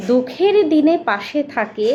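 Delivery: put-on slow, lilting children's rhyme reading; reading a friendship rhyme aloud; rhyme recitation. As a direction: recite the little poem for children.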